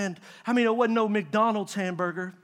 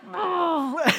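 high strained effort noise; mock straining grunt; 7 semitones higher than usual. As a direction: grunt as if forcing a lid. Acts out straining at jar lid.

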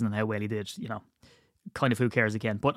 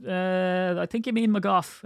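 hesitant correction; 7 semitones higher, slower than usual. Retold or imitated. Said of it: "And they went".

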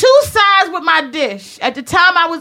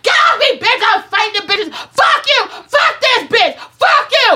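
screaming in fury, much higher and louder; 7 semitones higher than usual. Retold or imitated. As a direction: build into a full furious yell. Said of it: "I was screaming so loud".

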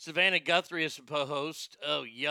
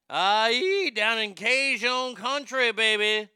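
louder, higher Cajun whoop; hammed-up Cajun cheer; playful Cajun holler; 4 semitones higher, 5 dB louder, slower than usual. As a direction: whoop it up in a mock Cajun accent. Hollers about Louisiana in Cajun flavour.

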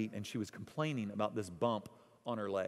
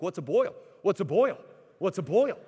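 put-on a light, higher little-girl voice asking again and again; curious child; 6 semitones higher, 10 dB louder than usual. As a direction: mimic a six-year-old's insistent question. Six-year-old daughter asking repeatedly.

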